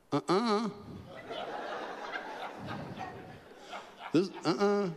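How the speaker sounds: high, laughing no-no; laughing refusal. Retold or imitated. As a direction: laugh off the order as you refuse it. Refusing God's command, laughing.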